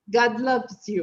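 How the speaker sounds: "God loves you" with one throaty A in "God" and "loves"; crisp English "God loves you", no added vowels; matching vowels. Shown as a demonstration. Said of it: "É a mesma pronúncia do love".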